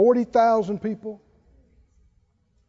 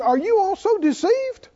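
scornful Pharisee; 5 semitones higher than usual. Retold or imitated. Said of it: "the Pharisees said".

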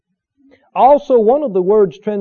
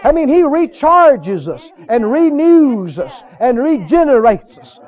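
raised, emphatic preacher's cadence; fervent preaching; 5 semitones higher, 3 dB louder than usual. Real, not acted. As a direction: preach it with mounting joy. Preaches with rising fervour.

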